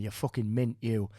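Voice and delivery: imitated Geordie-ish compliment; Northern English accent. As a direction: do a Geordie or Northern bloke praising someone. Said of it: "he had, like, a Geordie accent or a Northern accent".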